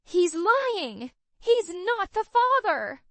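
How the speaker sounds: high, loud shriek. A narrator's reading. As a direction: shriek the denial. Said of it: "Carly shrieked".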